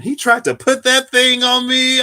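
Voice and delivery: high squealing panic; panicked retelling. Retold or imitated. Recalling the teacher with the mantis, high panicked squeal. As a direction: squeal it as if the mantis is coming at you.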